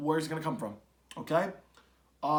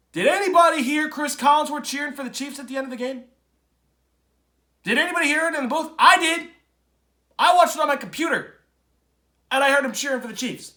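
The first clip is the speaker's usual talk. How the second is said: higher and louder, fired up; indignant, can't believe what he heard; outraged disbelief; 7 semitones higher, 6 dB louder than usual. Real, not acted. Outraged about announcer cheering.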